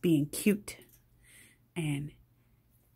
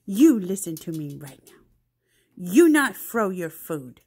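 stern warning; 6 dB louder than usual. Real, not acted. Stern talk to pet.

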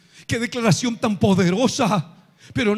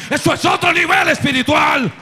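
much higher and louder, full-force preaching; a soaring shouted echo of the line; pulpit shout; 6 semitones higher, 4 dB louder than usual. Shown as a demonstration. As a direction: hurl the repeat at the congregation.

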